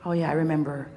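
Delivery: low, slowing, pretend-glum recollection; comic low-energy self-talk; mock dejected. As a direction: play at resigned bewilderment, dragging the last words. Voicing confused morning thoughts.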